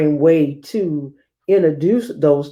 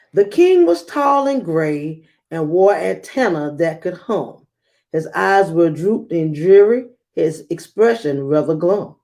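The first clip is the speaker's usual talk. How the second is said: story narration. A narrator's reading.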